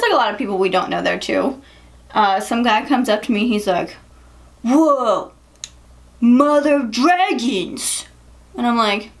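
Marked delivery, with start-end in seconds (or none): 4.6-8.1 slow, raised-pitch mock holler; drunk guy hollering. Drunk party guy mistakes her costume, hollering slowly. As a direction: imitate a drunk stranger calling out.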